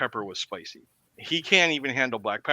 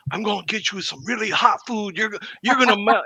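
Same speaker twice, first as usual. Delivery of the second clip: bragging, a bit higher, with a lilt; teasing buddy; 8 semitones higher, 4 dB louder than usual. Retold or imitated. Buddy boasting about hot food, a bit higher, teasing. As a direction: promise a scorcher with a grin. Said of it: "he's like".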